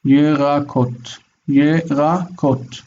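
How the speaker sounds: Yerakot said slowly, in separate syllables ye-ra-kot. Shown as a demonstration. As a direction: sound out Yerakot with a voiced short e after the Y. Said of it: "so the shva is vocal".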